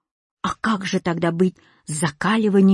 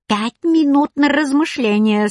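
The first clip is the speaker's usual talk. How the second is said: high, raised creaky crone voice; creaky old woman; 6 semitones higher, 4 dB louder than usual. A narrator's reading. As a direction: creak it out as a stern old hag. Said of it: "скрипела старуха". (скрипучий старушечий голос)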